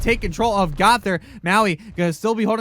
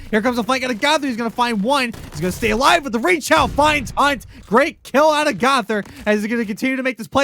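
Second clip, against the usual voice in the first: excited play-by-play; 4 semitones higher, 4 dB louder than usual. Real, not acted. Hyped play-by-play of big kills.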